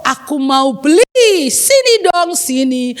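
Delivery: drawn-out call to a vendor; calling over. Acted. Child calls the bakso seller over, insistently. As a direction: beckon the seller with stretched words.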